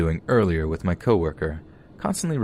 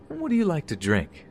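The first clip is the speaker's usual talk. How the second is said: creepy man voice; 11 semitones higher than usual. Retold or imitated.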